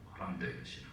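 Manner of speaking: 코람데오의 신앙 whispered, unvoiced and soft. Shown as a demonstration. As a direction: breathe 코람데오의 as a hushed echo. Repeated in a whisper. (속삭이는 코람데오의 신앙)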